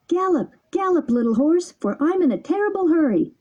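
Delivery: high, fast gleeful cry; gay shout. A narrator's reading. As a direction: urge the bird on like a rider. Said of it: "shouted gaily".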